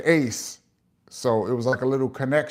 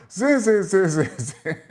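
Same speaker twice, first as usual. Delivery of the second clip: imitating Pow Wow's zin sounds; 5 semitones higher than usual. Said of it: "he started doing the sounds".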